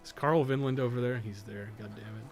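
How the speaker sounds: ordinary delivery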